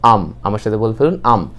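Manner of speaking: "আম" said as one short syllable; contracted "I'm". Shown as a demonstration. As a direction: run "I am" together as "আম". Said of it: "এটার উচ্চারণটা হবে আম".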